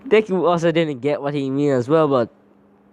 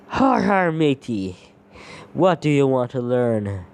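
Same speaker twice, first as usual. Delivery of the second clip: hammy pirate growl. Acted. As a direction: play a jolly pirate. Deku talks as pirate animatronic.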